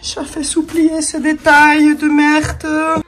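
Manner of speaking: put-on joking German accent in French; French spoken with a mock German accent. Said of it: "Faut vraiment que j'arrête avec l'accent allemand".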